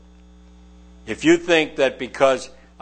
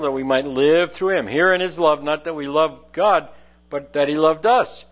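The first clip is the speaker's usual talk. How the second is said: raised, solemn reading of the verses; scripture reading. Acted. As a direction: proclaim the verses to the congregation. Rereads verses nine and ten.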